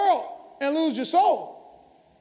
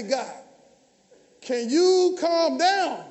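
slow plea; much slower than usual. Retold or imitated. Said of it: "I say".

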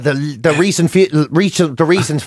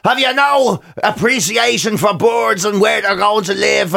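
slow, higher mock indignant outcry; slow, raised voice of offended Instagram commenters; mock outrage; 4 semitones higher, slower than usual. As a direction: ham up the online outrage at fake grass. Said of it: "They were like".

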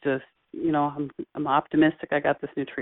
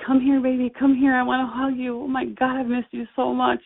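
higher-pitched, doting welcome; loving mother; 6 semitones higher than usual. Retold or imitated. Mother greeting her late son in a dream, lovingly. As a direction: call your child in for a long-missed hug. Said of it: "hear the love in her voice".

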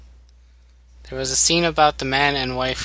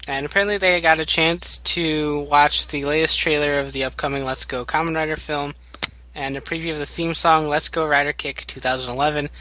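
news reporter voice. Acted. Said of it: "You sounded like a news reporter".

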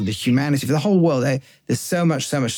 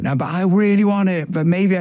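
higher, pleading want; mock wheedling, pitched up; craving inner voice; 5 semitones higher than usual. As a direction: bargain like the urge inside. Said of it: "the good voice is like this external".

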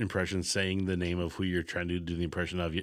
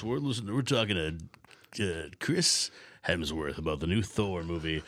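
radio DJ; 4 semitones higher than usual. Retold or imitated. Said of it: "Oh, a call-in radio show?".

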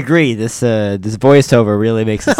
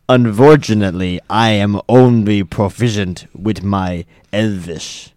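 louder, slow, lightly voiced snob; haughty letter reading; 5 dB louder, slower than usual. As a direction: read it with mild disdain. Player reads snobbish letter aloud.

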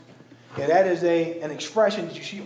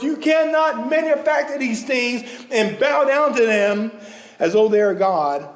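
voicing God; 5 semitones higher than usual. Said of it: "he said".

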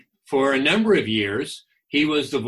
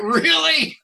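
a much higher, louder "Really?" in mock innocence; fake-innocent surprise; 5 dB louder than usual. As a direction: play dumb with a big rising "Really?". Retold feigned innocent surprise.

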